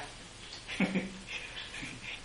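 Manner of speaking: soft, breathy laugh; quiet chuckle. Real, not acted. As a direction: laugh quietly after making the point. Laughs after explaining changed teaching.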